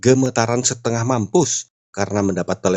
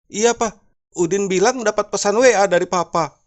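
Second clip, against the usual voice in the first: high, mock-tearful voice; plaintive high pitch, lightly acted weeping; 12 semitones higher than usual. Wife phoning husband at the office, mock tearful. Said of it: "Sambil menangis".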